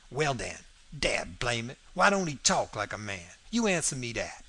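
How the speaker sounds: emphatic Southern dialect challenge; lightly played dialect character, insistent; lightly voiced Jim. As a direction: drive the argument home as Jim. Jim triumphantly closes his argument.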